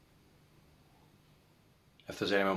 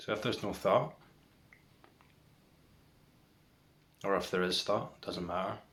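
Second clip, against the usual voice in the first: guided meditation. Real, not acted. Guiding viewers to watch for the next thought, meditation voice. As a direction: lead them into stillness, leaving long silences between phrases.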